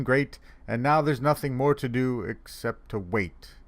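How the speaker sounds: put-on even sing-song children's verse; poem recital. Santa reading The Day Before Christmas, in a lilting recital. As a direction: recite in neat rhythmic couplets.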